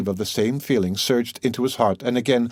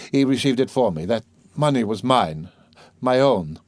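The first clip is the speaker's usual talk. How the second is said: slightly raised, earnest explaining; troubled man, insistent; 3 semitones higher than usual. Acted. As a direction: reassure her, insisting on the facts.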